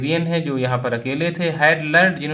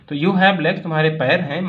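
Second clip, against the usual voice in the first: mock shout. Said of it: "My uncle Khosrow shouted".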